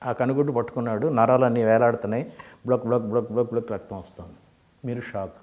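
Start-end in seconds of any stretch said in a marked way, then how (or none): 2.7-3.7 1 squelch sound. Retold or imitated. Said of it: "బ్లక్ అని sound వచ్చింది".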